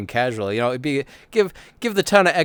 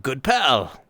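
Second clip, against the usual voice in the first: casually chummy; 4 semitones higher, slower than usual. Pretend. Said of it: "just being like".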